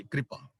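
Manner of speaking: ਕਿਰਪਾ said softly as "kri-pa"; correct reading demo. Shown as a demonstration. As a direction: quietly repeat ਕਿਰਪਾ as kri-pa, k and r joined. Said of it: "ਕਿਰਪਾ ਬੋਲਾਂਗੇ".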